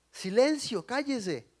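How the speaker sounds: high-pitched acted hushing; scolding command. Crowd rebukes the shouting blind man, scolding. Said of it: "lo reprendían para que se callara".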